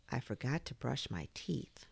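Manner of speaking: small guilty murmur; sheepish confession. Acted. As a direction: own up quietly.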